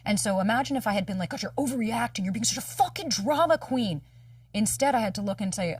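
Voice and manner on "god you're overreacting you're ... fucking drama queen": higher-pitched, exasperated self-scolding; acted exasperated put-down; mock scolding. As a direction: berate yourself as a drama queen, dragging out the jab. Imagined scolding of herself.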